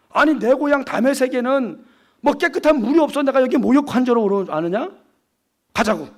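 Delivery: acted huff of an offended general; flare of anger. Naaman objects to washing in the Jordan, flaring up angrily. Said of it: "화를 버럭 내요".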